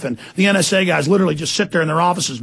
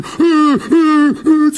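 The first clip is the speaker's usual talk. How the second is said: laughing; 8 semitones higher, 3 dB louder than usual. Real, not acted. Laughing at enforcers.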